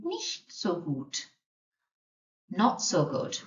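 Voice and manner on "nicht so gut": "Nicht so gut" said slowly and softly, each word apart; slow model. Shown as a demonstration. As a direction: spell it out slowly for beginners. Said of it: "you could also reply by saying".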